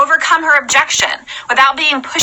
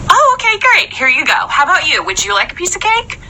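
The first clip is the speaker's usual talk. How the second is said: bright, higher hostess voice offering cake; cheery cake lady; 5 semitones higher than usual. Shown as a demonstration. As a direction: play a chirpy cake server. Cake lady serving guests.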